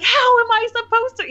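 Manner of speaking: high-pitched teenage protest, lightly hammed up; imitating exasperated daughter. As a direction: protest like an exasperated teen, voice shooting way up. Daughter's acted protest to mother.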